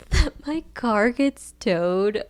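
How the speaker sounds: drawn-out words with a laugh in them; amused laughing. Real, not acted. Tired worker telling of her towed car, amused laughing. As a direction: laugh through it, slowly.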